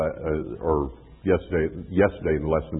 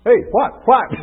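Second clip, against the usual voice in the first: much higher and louder, shocked protest; boy stunned he is getting a spanking; startled kid; 9 dB louder, slower than usual. Retold or imitated. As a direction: jolt like a kid who did not see it coming. Kid caught off guard.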